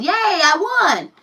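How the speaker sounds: put-on high, slow, childish victory cheer; mock little girl crowing yay I won; imitating daughter cheering. Mom imitating her daughter's gloating cheer.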